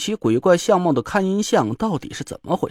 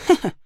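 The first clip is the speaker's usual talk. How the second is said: sly snicker; 8 semitones higher than usual. A narrator's reading. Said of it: "郭永哲坏笑了一声".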